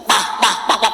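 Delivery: rapid banging noise made by mouth; bah-bah like a desk being hit; imitated desk banging. Class captain hits the desk, imitated banging. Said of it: "the class captain hit the desk".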